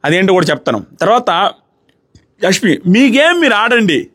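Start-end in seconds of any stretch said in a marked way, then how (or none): 2.9-4.1 higher, slow, held-back version of her yell; restrained imitation. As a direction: quote her slowly without the full shout. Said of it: "అంత బర్రె గొంతు వేసుకుని అరవలేను".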